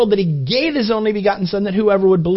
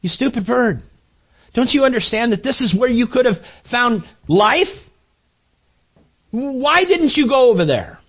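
mad at bird; 4 semitones higher than usual. Retold or imitated. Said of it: "he gets mad at the bird".

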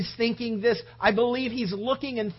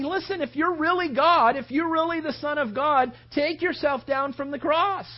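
higher, louder taunt; mocking; 5 semitones higher, 4 dB louder than usual. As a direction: mockers jeering at Christ on the cross. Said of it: "they were saying".

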